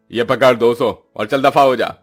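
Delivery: brusque, mildly irritated send-off; curt boss's order; dismissive landlord. Acted. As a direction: shoo the worker away.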